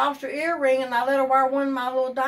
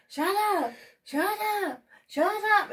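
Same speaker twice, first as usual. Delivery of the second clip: higher, rising shut ups; retold shut up; 7 semitones higher than usual. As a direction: snap at him to stop. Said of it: "I'm like".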